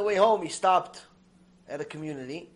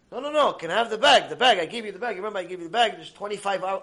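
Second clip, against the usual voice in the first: insistent, slightly raised plea; urgent protest; 3 semitones higher, 6 dB louder, faster than usual. Retold or imitated. Guest asks rabbanit for his bag back, acted urgent protest. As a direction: press the point, repeating in a hurry.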